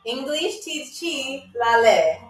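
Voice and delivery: careful, slow repeat for learners; measured teaching pace; really slow. Shown as a demonstration. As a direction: separate the words and take your time. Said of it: "I'm gonna say it really slow".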